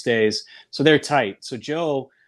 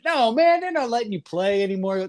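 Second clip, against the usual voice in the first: Willie Mays voice; 9 semitones higher than usual. Retold or imitated. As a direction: play the legend falling for the joke. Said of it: "Willie's kinda hook, line, and sinker buying it".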